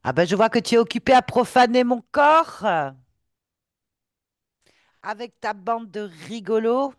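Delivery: high, loud vengeful ghost; seething shrieking spirit. Acted. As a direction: spit it out like a wronged spirit. Ghost confronts her desecrator.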